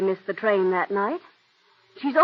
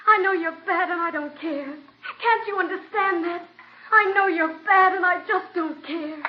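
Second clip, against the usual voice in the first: put-on young actress auditioning, growing more passionate; audition reading as Cora; 4 semitones higher than usual. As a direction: read for the part, each repeat pushing harder. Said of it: "read the part of Cora".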